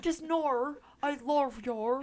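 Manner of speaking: hammed-up Australian accent, sweetly teasing; mock Australian accent. Comforting husband Christian during an argument, in a jokey Australian accent. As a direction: play it as a bad Australian accent comforting him. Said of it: "It's Australian accent".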